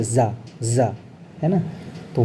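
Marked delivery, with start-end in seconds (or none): 0.0-0.9 जा said as za, softer; teacher demonstrating za; nukta za sound. Shown as a demonstration. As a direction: show जा as a buzzing z. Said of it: "इसको फिर जा pronounce किया जाता है".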